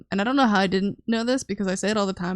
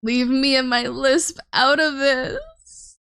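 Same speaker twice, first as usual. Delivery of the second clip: slow, hammed-up fake sob, a little higher and louder; mock crying; 4 semitones higher, 4 dB louder, slower than usual. Streamer begs chat to spare her lisp, mock crying. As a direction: whine it like a pretend cry. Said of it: "I'm gonna cry".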